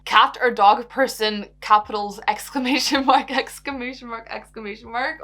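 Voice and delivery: reads the caps loud, then trails off; voicing Becky's all-caps excitement, fading as it goes; excited shouty question. Reading Becky's shouted question aloud, loud and excited, then fading. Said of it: "Okay, Becky, calm down".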